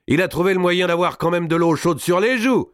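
high, gleeful derision; jeering exclamation. A narrator's reading. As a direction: crow over the victim's tears. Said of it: "s'écria Maltraverse". (raillerie aiguë et jubilante)

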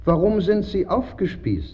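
high, curious fish voice; fat perch voice. A narrator's reading. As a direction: ask like a fat nosy perch. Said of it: "fragte ein fetter Barsch".

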